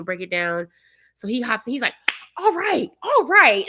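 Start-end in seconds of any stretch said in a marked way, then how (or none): 2.4-3.6 imitating the driver's pumped-up all right; loud high hype, a touch hammed-up; hyped driver. Imitating the hyped driver cheering himself on, mock hype.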